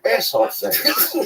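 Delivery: drawn-out taunt; calling out. Retold or imitated. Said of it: "I go".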